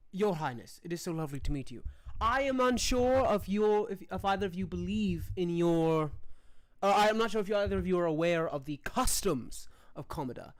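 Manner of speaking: lightly voiced courteous commoner; polite bread vendor. Bread guy greets the princess, lightly voiced courtesy. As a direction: charm the royals with formal politeness.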